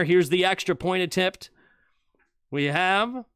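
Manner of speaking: a lightly done broadcaster call of the extra point; live play-by-play. Acted. Streamer calls the extra point for his viewers, light play-by-play. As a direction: call the kick like a TV announcer.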